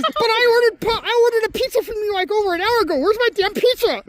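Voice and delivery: high, angry put-on Indian accent; an irate customer in a fake Indian accent; mock Indian accent, irate. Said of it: "affect the thick, almost indecipherable Indian accent".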